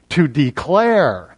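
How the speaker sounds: "declare" stretched slowly with a falling end; stress on declare. Shown as a demonstration. Preacher pointing out the next verse's key word, slow stress on "declare". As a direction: lean long on "declare". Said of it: "it's get stronger and stronger".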